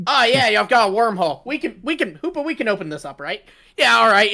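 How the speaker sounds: put-on high, loud excited child voice; squeaky eager little girl; playful kid voice. Acted kid voice, playful quote.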